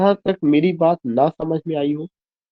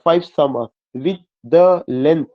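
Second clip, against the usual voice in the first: "summer" and "length" stressed, very slow; scanned verse stress; much slower than usual. Shown as a demonstration. Teacher scanning the line for students, slow alternating stress. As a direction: scan it slowly, weight on "summer" and "length". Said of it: "इस पे करना पड़ा".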